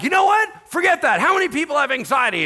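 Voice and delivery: reenacted high-pitched yelling tirade; screaming and yelling. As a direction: yell it loud and high, worked up. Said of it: "I'm just, like, screaming and yelling".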